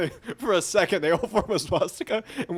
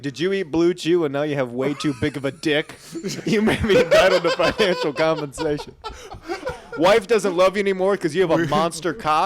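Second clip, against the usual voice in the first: lightly voiced lawsuit-ad pitch; mock TV attorney ad, cracking up; hammed-up legal commercial read; lawsuit ad announcer; 4 dB louder than usual. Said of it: "one of those medical lawsuit ads".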